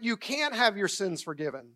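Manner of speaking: "can" leaned on and lengthened; emphatic "can"; stress on can. Shown as a demonstration. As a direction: put the weight on "can" within the phrase. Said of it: "Notice I said "can have".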